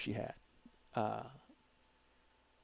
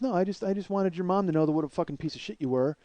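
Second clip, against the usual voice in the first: higher-pitched imitation of a furious girlfriend; retold angry rant; 6 semitones higher, 4 dB louder than usual. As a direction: rant it in a raised voice.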